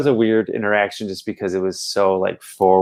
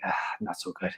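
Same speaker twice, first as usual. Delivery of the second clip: much higher, much softer mock verdict; drunk fan voice; 11 semitones higher, 14 dB quieter, much faster than usual. Drunk fan judging the second record. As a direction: sneer it gently like a tipsy critic.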